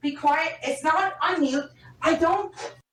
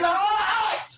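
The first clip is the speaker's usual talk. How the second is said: sudden higher-pitched yell; real yelling; 5 semitones higher than usual. Real, not acted. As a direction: yell it to cut the partner off. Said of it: "Would you stop yelling?".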